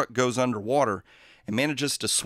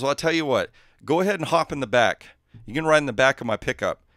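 louder, hearty country driver offering a lift; folksy driver; 2 semitones higher, 6 dB louder, faster than usual. Acted. Pickup driver calls boys to hop in, hearty. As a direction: call out from the truck cab, friendly.

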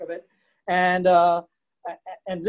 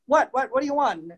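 mock grumpy Agnes; 6 semitones higher than usual. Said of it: "Agnes would go".

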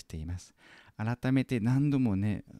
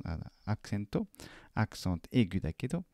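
normal talking voice

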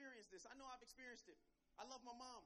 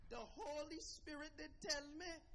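imitated mother; 3 semitones higher, 5 dB louder, slower than usual. Mother answers how she knew.

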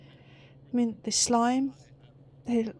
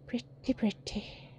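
whispering; 10 dB quieter than usual. Real, not acted.

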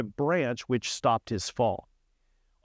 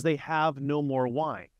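1 pleading. Shown as a demonstration. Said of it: "It's a plea for help".

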